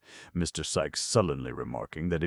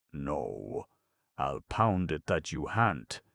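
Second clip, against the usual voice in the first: bitter; slower than usual. Acted. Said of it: "with a bitter grin".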